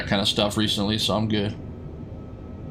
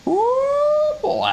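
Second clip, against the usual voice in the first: surprised ooh. Real, not acted. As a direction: react with a startled ooh. Reacting to landing.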